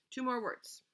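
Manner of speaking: breathy whispered aside. Real, not acted. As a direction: lean in and whisper it.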